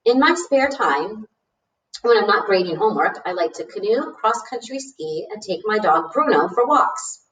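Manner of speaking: lightly voiced, pleased teacher; welcoming teacher. Teacher replying to Arthur's letter, lightly voiced welcome. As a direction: read it as a teacher welcoming a new student.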